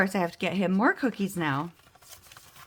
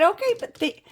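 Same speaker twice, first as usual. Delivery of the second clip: chirpy phone voice; 13 semitones higher, 5 dB louder than usual. Retold or imitated. Her own phone voice.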